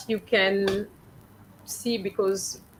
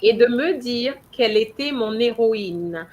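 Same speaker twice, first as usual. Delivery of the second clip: héroïne dropping down at the end; falling at the full stop; 3 dB louder than usual. Shown as a demonstration. Teacher modelling the falling tune for Anna. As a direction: let the voice fall on héroïne. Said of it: "your voice goes down before a full stop".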